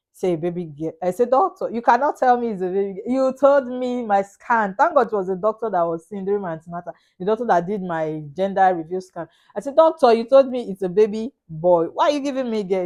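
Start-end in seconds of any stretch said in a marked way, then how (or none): 1.3-4.8 higher-pitched, disbelieving complaint; retold indignant protest. Retells protest to the doctor. 9.8-12.9 retold indignant protest. Retells protest to the doctor.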